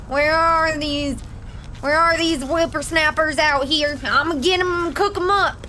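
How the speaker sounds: a hint of a grumpy old man hunting kids; lightly voiced cranky old-timer, gleeful threat; 1 old villain voice. Streamer voicing his old villain, calling for the whippersnappers, lightly gruff.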